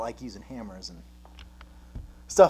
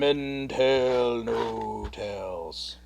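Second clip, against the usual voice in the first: very slow, drawn-out pirate line; 5 semitones lower, much slower than usual. Pretend. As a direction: intone it like a movie pirate. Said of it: "what you've got going on there".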